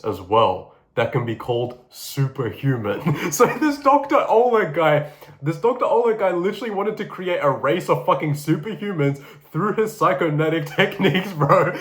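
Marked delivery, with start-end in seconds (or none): 3.2-11.7 higher, laughing disbelief at the story; can't keep a straight face telling it; laughing while telling. Real, not acted. Telling friends about a crazy scientist, laughing. Laughing at absurd superhuman plan.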